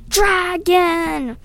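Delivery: high, loud shriek of alarm. A narrator's reading. Nick shrieking at the sight of the dragon, high shriek. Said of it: "He just shrieked".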